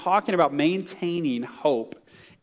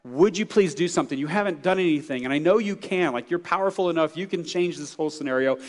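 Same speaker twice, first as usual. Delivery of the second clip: imitating a prophet's plea, raised pitch; acted-out complaint, insistent and higher; complaining prayer; 4 semitones higher than usual. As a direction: plead with God in mild exasperation. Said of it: "He was complaining to God".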